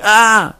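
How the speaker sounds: a lighter shout of pain, held back; quick cry of a woman in labour; mild demo cry. Shown as a demonstration. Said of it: "une personne qui crie".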